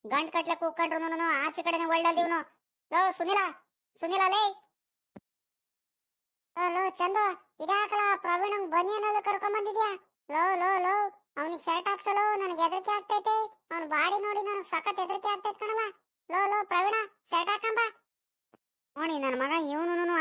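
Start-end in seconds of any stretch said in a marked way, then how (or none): 2.9-4.4 higher, louder calls for a friend; a loud call to Sunil, higher pitched. Acted. Calling loudly for Sunil. 6.6-17.8 a jeering village friend, pitched higher; mocking friend. One actor plays laughing Sunil.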